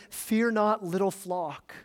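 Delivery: gentle, softening toward little flock; a shepherd soothing his sheep; tender. Acted. Jesus calming his frightened little flock, tender and soft. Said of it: "it's this tender way of".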